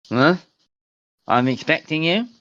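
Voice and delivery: a severed head speaking in a hammed-up Russian accent; heavy Russian accent. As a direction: Baba Yaga greeting you in a thick Russian accent, as if something's in her mouth. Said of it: "a heavy Russian accent".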